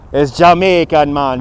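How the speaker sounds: badly faked Jamaican accent; horrible Jamaican accent. Shown as a demonstration. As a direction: do a hammy, amateur Jamaican accent. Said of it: "This is my horrible Jamaican accent".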